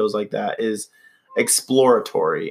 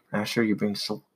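overwhelmed by cuteness; 2 semitones lower, 6 dB quieter than usual. Real, not acted. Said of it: "I have cute aggression still".

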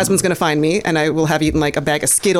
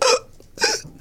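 choking gasp; 3 dB quieter than usual. Retold or imitated. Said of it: "I would just be like".

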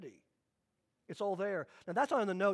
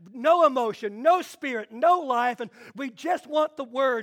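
louder, barked-out list of refusals; stern no-nonsense declaration; 5 dB louder than usual. Retold or imitated. Preacher imitates the dry church, loud and stern. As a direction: shout down emotion like a rigid elder. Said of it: "So this other group says".

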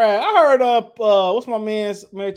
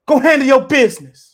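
higher, much louder, shouted command; mock shout; 8 semitones higher, 13 dB louder than usual. Cheering the promoter on, loud mock shout. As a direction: bark it like hype from the sidelines.

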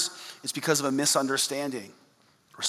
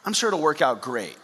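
mock lonely God; 2 semitones higher than usual. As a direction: tease a needy God wanting a buddy.

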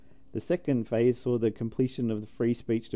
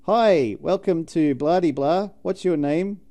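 higher, louder chirpy call centre voice; call centre agent; 5 semitones higher, 5 dB louder than usual. Retold or imitated. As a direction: play an overly bright operator. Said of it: "it's like".

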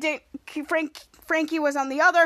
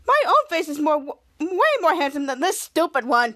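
lightly camped-up vain voice; campy vanity. Acted. Frank as Captain Man boasting of his face, mildly camp. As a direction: preen a little, mock-offended. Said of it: "sounding gay as usual".

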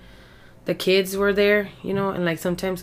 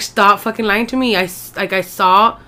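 angry accusation; 5 dB louder than usual. Retold or imitated. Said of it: "And I was like".

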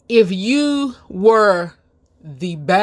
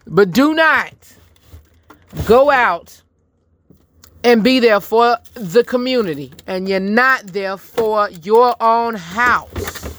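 emphatic preaching; 2 semitones higher, slower than usual. Real, not acted. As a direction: hammer the warning home. Same warning, repeated harder.

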